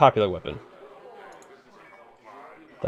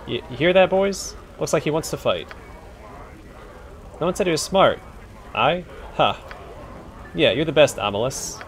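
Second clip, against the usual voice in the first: rough cockney thug calling to his mates, higher; cockney bully jeering; 6 semitones higher than usual. Acted. Bully rallying his boys, mocking cockney voice. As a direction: crow it to the crowd.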